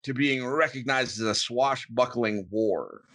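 pirate voice. Acted. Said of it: "that was a pretty convincing pirate".

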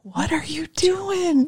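high, drawn-out mock whisper; imitated cute whisper.

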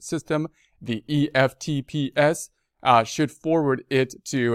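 measured read-aloud of an official notice; news read. Real, not acted. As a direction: read the bulletin out formally. Reads the notice.

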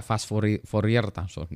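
Fourier as "fo-ri-er", r sounded; read as spelt. Shown as a demonstration. Lecturer recalling his book-learned misreading, Fourier read as spelt. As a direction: pronounce Fourier just as it is written. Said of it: "kalau saya baca".

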